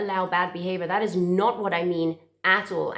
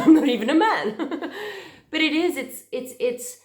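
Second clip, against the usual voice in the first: higher, louder, laughing through the words; emotional laugh; 7 semitones higher, 3 dB louder than usual. Real, not acted. Coach joking at her own emotion, laughing. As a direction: laugh it out while getting emotional. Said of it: "I don't know why I'm getting emotional".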